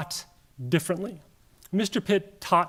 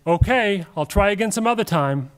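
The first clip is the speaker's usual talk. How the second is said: bad acting; 2 semitones higher, 5 dB louder than usual. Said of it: "I'm a terrible actor".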